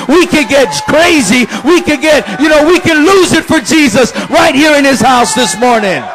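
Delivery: rally them to celebrate; full-force preaching. Acted.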